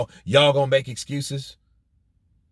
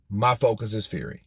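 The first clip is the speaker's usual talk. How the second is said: calm answer; 5 semitones lower, 4 dB quieter than usual. Shown as a demonstration. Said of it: "should have answered like this".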